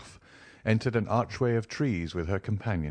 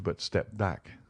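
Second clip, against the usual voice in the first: usual speaking voice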